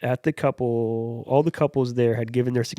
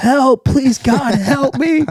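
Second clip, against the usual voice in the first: very high, very loud screaming; 14 semitones higher, 11 dB louder than usual. Retelling a man tied to a pole: imitating him screaming for help. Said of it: "he's, like, screaming".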